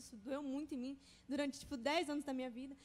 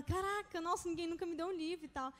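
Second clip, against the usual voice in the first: amazed reaction; 2 semitones higher than usual. Retold or imitated. Teacher receiving a book, imitated amazement.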